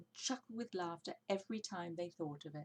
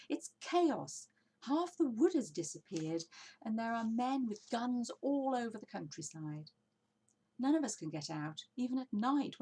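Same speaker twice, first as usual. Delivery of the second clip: higher, louder alarmed rush; excitedly; 5 semitones higher, 5 dB louder than usual. A narrator's reading. Badger tells the foxes of the hill, excited and loud. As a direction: pour out the bad news. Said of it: "Badger said excitedly".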